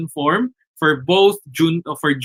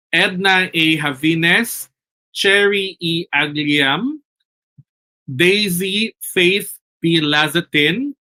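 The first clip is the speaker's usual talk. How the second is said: slow roll call of names, each lifted at the end; winner announcement. Real, not acted. Host reading raffle winners to webinar audience, slow announcement. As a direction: read out winners slowly, name by name.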